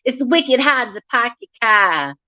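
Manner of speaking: light mock Boston accent; Jersey-Boston accent. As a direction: have a rough go at a heavy Jersey or Boston accent. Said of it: "she had that Jersey accent".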